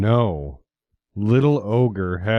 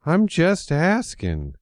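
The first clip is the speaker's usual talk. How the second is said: high nervous stammer; stuttering; 8 semitones higher than usual. A narrator's reading. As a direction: ogre flustered and scared. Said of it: "stuttered Little Ogre".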